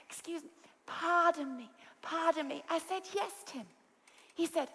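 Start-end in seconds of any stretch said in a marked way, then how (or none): 0.1-2.6 softer, timid and polite. Retold or imitated. The proper friend timidly trying to get the host's attention. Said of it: "in a very soft voice". 3.1-3.7 quiet reply. Retold or imitated. Answering whispering friend quietly.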